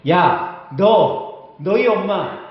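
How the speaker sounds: rude outburst. Retold or imitated. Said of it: "막말이 막 나오는 거예요".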